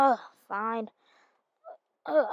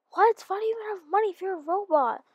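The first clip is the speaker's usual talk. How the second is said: surprised; 6 semitones higher, faster than usual. Acted. Surprised at robot banker.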